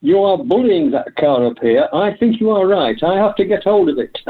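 a retold quote with a touch of German accent. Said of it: "in his sort of German, uh, accent".

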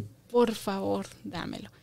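slow, softening plea; soft pleading. Shown as a demonstration. Teacher shows a humble plea for something, slow and soft. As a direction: beg gently, slowly, fading out. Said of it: "Ahí entra el".

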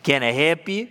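lightly voiced country uncle offering help; easygoing, mock-helpful country question; folksy uncle talk. Uncle pulling strangers' leg, folksy offer of help. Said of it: "that's how I talk".

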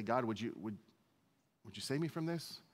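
softly pleading, halting prayer; falter, then softly ask for rescue; hesitant prayer. Acted. Jesus asks God to save him, soft hesitant prayer. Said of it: "is it really that prayer like at Gethsemane".

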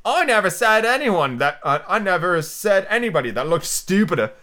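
high, slow, affected flower voice; sudden Violet. A narrator's reading. Violet suddenly insulting Alice, high affected voice. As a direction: blurt it in a high drawn-out voice. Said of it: "said the Violet so suddenly".

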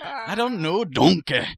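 high-pitched, swooping ogre impression; cartoon ogre voice. Co-host answering the ogre joke, cartoon ogre voice.

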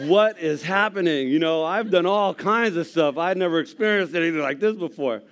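loud, high and slowed, full of awe; overwhelmed. Real, not acted. Telling the congregation of that day, loud awed voice. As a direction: shout out the wonder of it. Reliving overwhelming moment in church.

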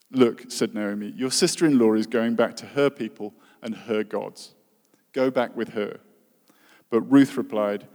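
scripture reading. Acted. Preacher reading the book of Ruth aloud to the church, formal reading voice. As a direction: read the passage out as a formal lesson.

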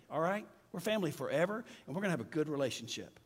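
gentle opening. Retold or imitated. Pastor to his estranged relative, gently reassuring. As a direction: lay down love first, gently.

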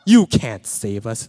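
put-on loud, high child's no that drops; a little girl shutting Daddy down, loud; daughter's refusal. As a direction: daughter loudly refusing her father's answer. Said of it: "And she says".

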